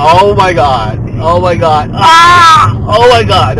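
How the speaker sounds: laughing. Real, not acted. Driver laughing uncontrollably.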